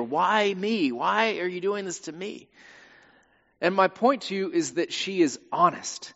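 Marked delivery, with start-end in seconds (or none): 0.0-2.5 acted anguished protest. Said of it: "With grief often comes anger".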